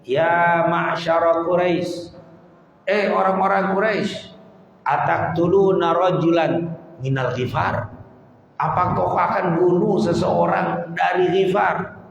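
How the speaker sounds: imitating a shouted challenge, pitched high; retold shout. Preacher voices the Prophet's uncle confronting the Quraisy, calling out.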